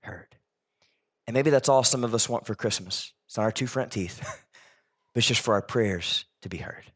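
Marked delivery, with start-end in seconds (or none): 0.0-0.4 very slow, fading to a breath on "heard"; slow hushed emphasis. Shown as a demonstration. Preacher repeating the key promise, slow and hushed. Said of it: "this line that we can't miss". 5.1-6.9 soft unvoiced hope after a laugh; whispered wish. Real, not acted. Preacher confiding the deepest wish, whispering. Tender hopeful aside.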